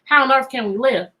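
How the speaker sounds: quoting the refrain. Retold or imitated. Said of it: "they have already said".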